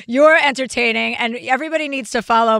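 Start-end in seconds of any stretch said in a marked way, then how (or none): 0.1-1.1 Brooklyn accent. Shown as a demonstration. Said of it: "That's my Brooklyn accent".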